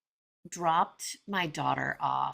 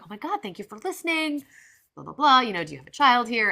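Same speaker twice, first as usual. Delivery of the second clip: high, effusive imitation of friendly thanks; re-enacted warm, delighted greeting; kind, warm gushing; 8 semitones higher, 7 dB louder than usual. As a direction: gush kindly, lifting the pitch. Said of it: "the kindest, warmest".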